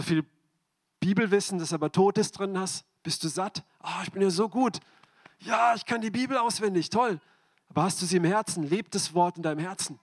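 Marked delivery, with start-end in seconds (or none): 3.8-7.2 mock smugness. Mocking smug self-satisfied believer.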